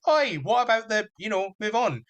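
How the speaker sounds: a hint of a companion calling him out; indignant Ruby. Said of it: "And Ruby goes".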